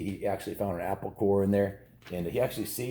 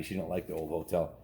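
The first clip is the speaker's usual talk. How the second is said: ordinary delivery, nothing marked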